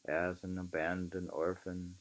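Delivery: measured, emphatic book reading; reading aloud. Acted. Reading Thoreau aloud to a friend, measured and emphatic. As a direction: read the old essay aloud with weight. Reads Walden passage aloud.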